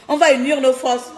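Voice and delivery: ordinary delivery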